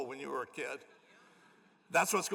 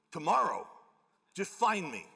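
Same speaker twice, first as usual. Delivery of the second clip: stern; 2 semitones higher, 4 dB louder than usual. Retold or imitated. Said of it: "he was, like, real serious".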